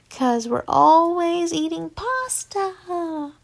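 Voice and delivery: high, slow, drawn-out joke line; character voice. Acted. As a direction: stretch the punchline out.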